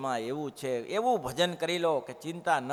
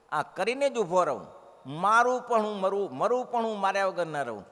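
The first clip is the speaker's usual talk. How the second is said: louder, higher stubborn vow, hammed up; defiant boast; 5 semitones higher, 5 dB louder than usual. Preacher mocking a proud man with a louder defiant vow. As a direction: puff up and vow to fight to the end.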